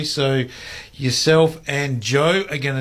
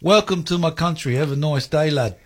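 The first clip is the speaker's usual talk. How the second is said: imitated broad English welcome; broad English accent, higher at the start; broad British accent; 3 semitones higher than usual. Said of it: "came out with this broad British accent".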